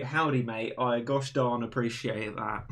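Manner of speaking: lightly put-on American accent, cowboy flavour; mock American accent. Shown as a demonstration. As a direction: play a folksy American, mildly. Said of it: "I like the American accent".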